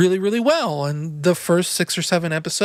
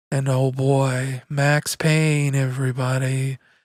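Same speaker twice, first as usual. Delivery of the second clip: mock sleepy, quiet mumbling, lower pitch; 5 semitones lower than usual. Imitating how they sounded in an old Let's Play: imitating own sleepy quiet voice. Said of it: "we're kinda talking like this".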